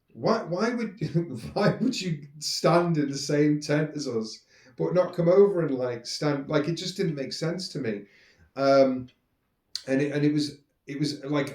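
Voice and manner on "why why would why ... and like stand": exasperated, half-laughing and slow; retold disbelief breaking into a laugh. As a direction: laugh at how little sense it makes.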